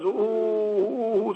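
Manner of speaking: drawn-out imitated wail, "ooh"; long wail sound. Shown as a demonstration. Teacher imitating a long crying sound. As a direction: let the "ooh" stretch like a long cry. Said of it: "or in long sounds".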